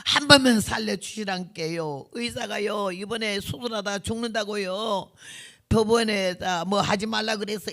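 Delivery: imitated pleading in a Jeolla accent; retold Jeolla prayer, a touch tearful; Jeolla dialect prayer. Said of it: "전라도 사투리로 기도를 하는데".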